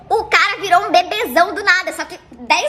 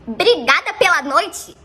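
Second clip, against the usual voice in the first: slower, rising disbelieving repeat; incredulous echo; slower than usual. Retold or imitated. Narrator echoing his thanks back, incredulous. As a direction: repeat it like you can't believe it.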